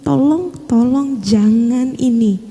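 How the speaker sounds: hushed, wincing plea to God; quiet desperate begging prayer; anguished pleading. Retold or imitated. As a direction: beg softly, slowing on the last tolong. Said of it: "Saya lebih meringis lagi".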